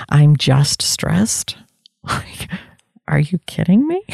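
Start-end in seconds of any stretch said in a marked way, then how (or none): 0.1-1.6 slow, drawn-out brush-off; mock dismissive. Shown as a demonstration. Mocking the phrase she uses to brush off stress. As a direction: stretch it out like shrugging it off. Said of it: "Stress reduces our lifespan".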